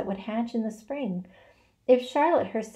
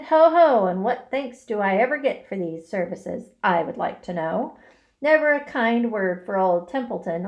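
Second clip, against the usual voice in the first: sarcastic self-pity; 5 dB louder than usual. Acted. Rat complains sarcastically.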